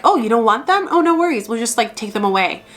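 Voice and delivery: high, breezy voice of the universe, lightly played; mock universe voice. The universe taking back unwanted gifts, mock breezy. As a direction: toss it off like the universe shrugging. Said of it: "and they're like".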